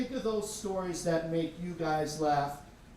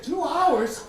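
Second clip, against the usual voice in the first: alarmed disbelief; 9 semitones higher, 8 dB louder than usual. Retold or imitated. Dad alarmed at late news.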